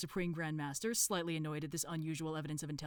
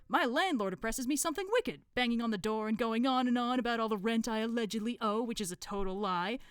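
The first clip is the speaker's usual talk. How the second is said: higher, louder aggrieved cult member; Brother Plasterer; 6 semitones higher, 5 dB louder than usual. Acted. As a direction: pile up indignant complaints. Plasterer complains in story.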